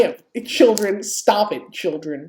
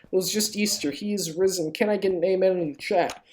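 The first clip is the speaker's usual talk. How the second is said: mock preacher. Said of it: "I become a practice preacher".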